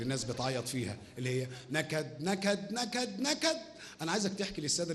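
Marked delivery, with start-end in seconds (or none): 1.7-3.6 repeated word climbing much higher; mock-tragic wail rising with each repeat; hammed-up gloom. Host hams up the misery segment. (نكد مصطنع بصوت يعلى في الطبقة)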